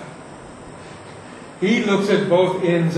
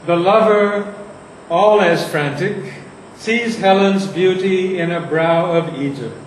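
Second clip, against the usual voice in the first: poetry reading; 3 dB louder than usual. Shown as a demonstration. Recites next verse.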